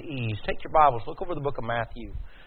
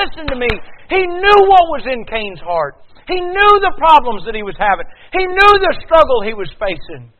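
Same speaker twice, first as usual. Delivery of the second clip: high, loud pulpit cry; impassioned preacher at full volume; full-force preaching; 10 semitones higher, 12 dB louder than usual. Real, not acted. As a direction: drive each phrase out loud and high.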